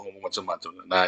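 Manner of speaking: normal talking voice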